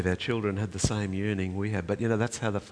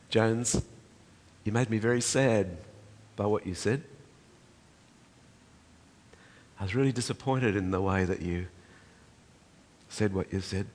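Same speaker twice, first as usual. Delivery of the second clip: soft loving. Retold or imitated. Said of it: "speaking softly and lovingly in his ear".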